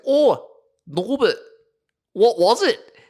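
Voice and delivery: high, gushing mother; mum voice. Retold or imitated. Mum asking Norbert, in a high gushing voice. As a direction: coo it like an impressed mum. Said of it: "And she goes".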